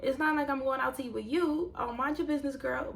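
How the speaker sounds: high, sassy side-eye thought; sassy inner voice. Retold or imitated. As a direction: brush her off in your head with attitude. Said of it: "And I'm thinking".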